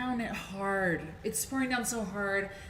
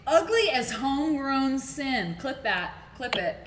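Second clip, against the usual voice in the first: delighted; 5 semitones higher, 6 dB louder than usual. Real, not acted. Savoring the cohost's insult.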